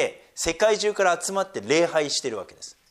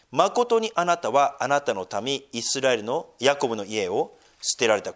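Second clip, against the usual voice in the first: scripture reading. Acted. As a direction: read the verse deliberately, like scripture. Reads Isaiah aloud.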